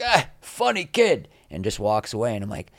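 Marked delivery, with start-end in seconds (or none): 0.0-1.3 put-on high, slow, amused old-star voice; James Caan. James Caan tossing a compliment to the young actor, amused. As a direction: lift it up and drawl out a chuckling brush-off. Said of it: "He's like".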